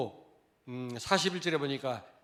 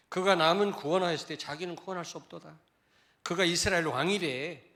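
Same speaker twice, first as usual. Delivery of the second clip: mocking taunt; 3 semitones higher, 5 dB louder than usual. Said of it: "조롱하는 거죠".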